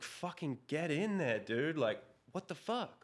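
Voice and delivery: pitched high, exasperated demand at the paramedics; mock-yell at them to get in there; retold angry outburst. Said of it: "I was so mad".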